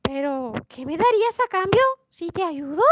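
a hint of a wheedling storybook frog; bargaining frog. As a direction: make a lilting offer as the frog. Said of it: "La rana le responde".

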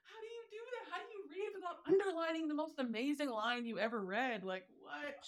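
high, hushed, incredulous mock gasp; mock disbelief. Book lover mocking non-annotators to podcast host, hushed high disbelief. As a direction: act baffled by people who never underline, pitch up and hushed. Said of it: "And I'm like".

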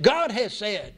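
"God has said" as a firm, falling declaration; emphatic. Shown as a demonstration. Preacher explaining the verse to the congregation, emphatic. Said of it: "very emphatically".

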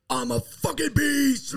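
high, slow, hammed-up boast; mock tough-girl brag; imitating wife. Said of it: "she's just like".

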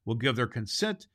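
measured storybook reading; storyteller voice, unhurried; story narration. A narrator's reading. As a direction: read the tale to children. Reads the storybook aloud.

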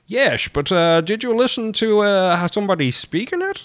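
put-on high, hammy Dutch accent; terrible Dutch accent. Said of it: "it's a terrible Dutch accent".

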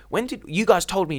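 high-pitched mock indignation; retold meltdown. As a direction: imitate a contestant protesting in disbelief, voice jumping up. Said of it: "And she loses her mind".

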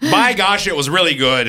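hammed-up folksy praise; Minnesota accent. Host repeats God's verdict in a Minnesota accent. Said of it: "That accent had to come from somewhere".

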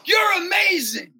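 high, loud call through the window; father shouting encouragement to the homeless man; shouted compliment. Retold or imitated. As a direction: call it out to cheer him up. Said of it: "So I go".

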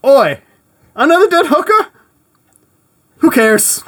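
loud, high, hammed-up Cockney copper; bad Cockney bobby. Scotland Yard copper brushing off a case, loud mock Cockney. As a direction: bark it like a careless London bobby. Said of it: "I'm really bad at accents".

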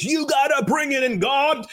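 mock preacher shout, pitched high; T D Jakes. Imitating a preacher on stage, high-pitched revival shout. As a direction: belt it out like a fired-up preacher. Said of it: "getting a proverbial T D Jakes".

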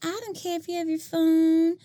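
high, eager-to-please teacher; a teacher begging to be liked; timid teacher voice. Acted. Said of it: "my, like, timid teacher voice that wants to be liked".

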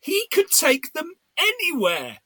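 to Rachel in the cinema, high mock awe. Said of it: "I turned to Rachel and said".

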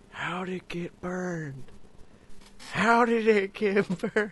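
drawling impression that breaks into a laugh; hushed film-star impression, cracking up; Owen Wilson. Cooking roleplay about burnt food, Owen Wilson impression. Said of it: "he really turns into Owen Wilson".

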